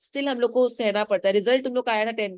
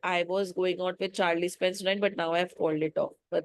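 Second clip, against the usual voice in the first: sulky; 2 semitones lower, 4 dB quieter, much slower than usual. Acted. Daughter grudgingly answering the neighbour, sulky. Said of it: "Doris एकदम सल्कीली मुंह बना के बोल रही है".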